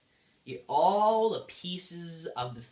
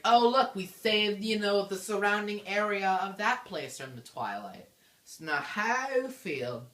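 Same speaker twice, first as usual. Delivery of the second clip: higher, louder mock celebration; mock triumph; 7 semitones higher, 4 dB louder than usual. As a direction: play up the happy news, pitched up. Voices celebration after beating the boss.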